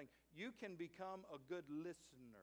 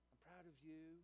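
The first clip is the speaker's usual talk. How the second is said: much softer, hushed imitation of whispering; retold whisper; 11 dB quieter than usual. Wife repeating it to her hard-of-hearing husband, hushed mock whisper. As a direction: drop right down, as if into someone's ear. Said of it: "leaned over and whispered in his ear".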